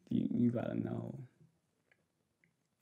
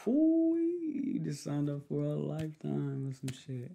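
drawn-out tease; 4 semitones higher, 4 dB louder than usual. Real, not acted. Teasing partner about commitment.

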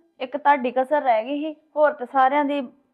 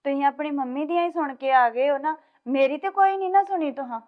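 hurt sulking wife; 6 dB quieter than usual. Acted. Wife complains, sulking in room.

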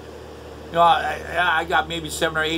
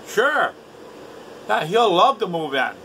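sarcastic sure; 4 semitones higher than usual. Acted. Sarcastic reply to friend moving in.

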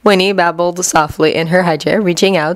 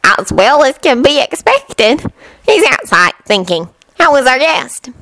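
put-on old granny, weary; 6 semitones higher than usual. A narrator's reading. Granny voiced in story.

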